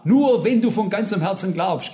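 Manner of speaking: mildly emphatic, no-nonsense retold answer; quoted plain-spoken firmness. Quoting the answer to someone asking for baptism, clear and firm. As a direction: state the condition firmly and clearly. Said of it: "sagt er klipp und klar".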